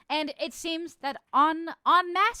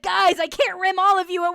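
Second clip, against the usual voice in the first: laughing; 7 semitones higher, 9 dB louder than usual. Retold or imitated. Reading chat through laughter.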